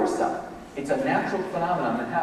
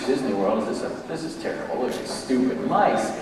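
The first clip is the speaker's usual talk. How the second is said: grumpy complainer; 5 semitones lower, 4 dB quieter than usual. Pretend. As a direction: moan like someone hating the trip. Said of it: "a person who's having a terrible day".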